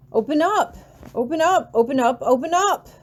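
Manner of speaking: high, loud desperate cries of open up; frantic tearful shouting at a locked door; sobbing pounding plea. A narrator's reading. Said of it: "I'm sobbing and banging on the door".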